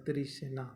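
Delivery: "तृष्णा" opened out as "tirishna"; Nagpuri pronunciation. Shown as a demonstration. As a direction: break up the cluster in "तृष्णा": ti-rish-na. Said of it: "इसलिए हो जाएगा". ("तृष्णा" को "तिरिश्ना" जैसा बोलें)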